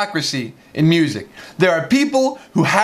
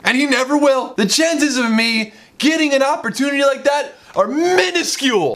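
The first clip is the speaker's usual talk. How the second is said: ranting yell; 6 semitones higher than usual. Real, not acted. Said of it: "I don't know why I'm yelling about this".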